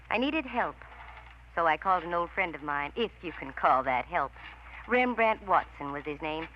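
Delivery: dry, wry voice-over looking back on the case; detective story narration. A narrator's reading. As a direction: tell it to the listener like a hard-boiled private eye. Candy narrates her own case.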